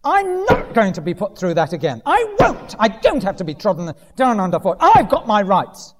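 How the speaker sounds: hammed-up wounded pride; mock inner protest. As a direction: dig your heels in, acted but not shouted. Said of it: "Everything within us screams out and says".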